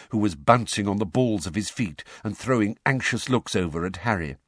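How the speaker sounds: ordinary delivery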